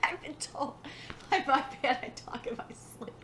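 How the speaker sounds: voiceless, wheezy laughter through the words; laughing hard. Real, not acted. Reader confessing sleep-talking to listeners, helpless laughter. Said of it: "I'm laughing so hard".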